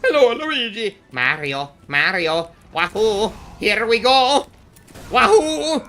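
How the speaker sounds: loud, high, bad game-hero impression; Mario. Streamer attempting Mario catchphrases, loud Mario voice. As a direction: shout out catchphrases in a high put-on voice. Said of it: "I can't do impressions".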